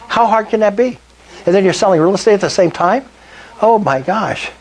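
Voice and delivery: winded from talking fast; out of breath. Real, not acted. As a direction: talk while short of breath. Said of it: "I'm running out of breath".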